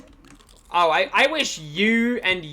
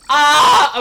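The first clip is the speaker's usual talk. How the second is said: surprised; 8 semitones higher, 10 dB louder than usual. Real, not acted. Sudden reaction while playing.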